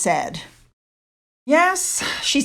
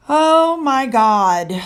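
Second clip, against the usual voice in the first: slow, drawn-out oh my God, fed up; exasperated; 4 dB louder, much slower than usual. Real, not acted. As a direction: stretch it out in disbelief. Exasperated reaction to Meghan.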